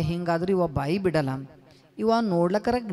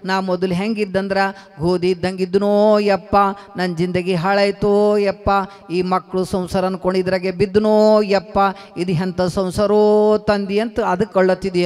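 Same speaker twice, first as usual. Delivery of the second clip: mournful lament; 3 dB louder than usual. Acted. Kabir tells the sadhu his ruin, mild wailing lament. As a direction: mourn like ground flour. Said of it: "ಅಂತ ಅಳಕ್ ಶುರು ಮಾಡಿದೆ".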